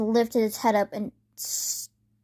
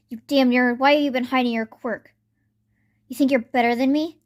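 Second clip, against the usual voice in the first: angry yell; 3 semitones higher, 5 dB louder than usual. Acted. Bakugo yelling at Izuku.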